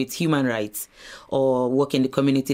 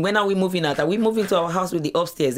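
put-on excited child; 4 semitones higher than usual. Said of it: "it was jumping and asking".

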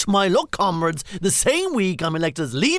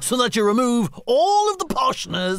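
sing-song up and down; 2 semitones higher than usual. Shown as a demonstration. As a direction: voice swooping up and down. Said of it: "make their voice go up and down".

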